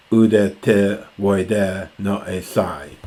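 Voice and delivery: measured, deliberate reading of verse; reciting Homer to the class; slow Greek recitation. Shown as a demonstration. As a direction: read out the Greek line slowly. Repeating the Greek phrase.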